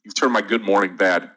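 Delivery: rueful laugh through the words; amused grumble with a laugh; laughing complaint. Real, not acted. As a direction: tease the viewer while laughing. Laughing at bad stock pick.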